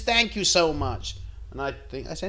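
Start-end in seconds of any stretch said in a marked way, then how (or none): 0.0-1.2 slow, higher sweet thank-you; drawn-out grateful old lady. Retold or imitated. Old lady thanking him from the cab, slow and sweet. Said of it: "She says".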